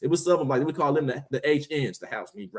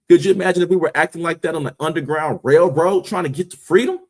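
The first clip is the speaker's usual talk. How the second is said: raised voice, building to a shout; loud passionate rant; 3 semitones higher, 5 dB louder than usual. Real, not acted. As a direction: get louder and more heated. Building rant about Underground Railroad.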